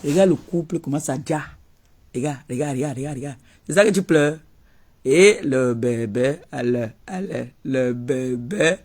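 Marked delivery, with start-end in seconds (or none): 5.0-8.8 mock baby talk.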